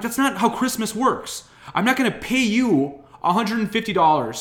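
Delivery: high, loud furious rant; angry rant. Retold or imitated. Son ranting at dad about gifts, loud angry. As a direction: tear into him, loud and high.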